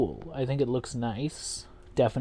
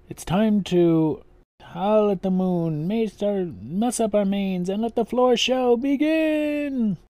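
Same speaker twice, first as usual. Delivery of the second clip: wolf voice; 7 semitones higher, 3 dB louder, slower than usual. Retold or imitated. Quoting the show's opening line.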